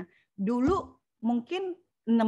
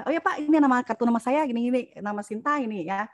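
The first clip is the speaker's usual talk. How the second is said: demo pitch; 4 dB louder than usual. Shown as a demonstration. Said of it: "kasihnya langsung gini gitu kan".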